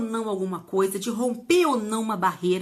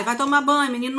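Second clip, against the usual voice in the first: imitating a mother's order; 4 semitones higher, 4 dB louder, faster than usual. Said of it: "as mães colocam na gente".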